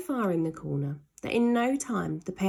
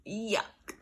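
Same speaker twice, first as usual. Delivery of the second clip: softer grossed-out groan; disgusted yuck; 5 dB quieter than usual. Acted. Boy covered in slime, disgusted. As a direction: recoil from the slime.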